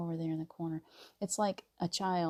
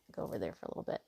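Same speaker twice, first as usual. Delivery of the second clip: whisper; 11 semitones lower, 7 dB quieter, much faster than usual. Acted. Sending the ego away.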